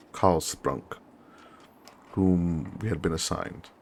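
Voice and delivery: measured war-diary reading; story narration. Acted. Officer recounts arriving at the trenches, measured narration. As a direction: read it as a deliberate journal entry.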